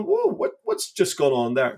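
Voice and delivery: high, astonished whoa; mock astonishment, voice leaping up; stunned amazement. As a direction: sound gobsmacked at what just happened. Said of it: "you go".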